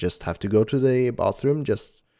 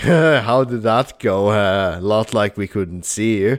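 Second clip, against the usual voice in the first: lower-pitched, put-on sarcastic tone; 3 semitones lower, 3 dB louder than usual. Speaker retelling how the guys greeted him coming out, mimicking sarcastic friends. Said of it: "they're like sarcastically asking me".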